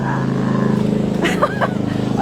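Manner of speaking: long, loud, very high laughing squeal. Real, not acted. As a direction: let out a piercing drawn-out laugh. Brincadeira com o sinal do helicóptero. (gargalhada aguda e prolongada)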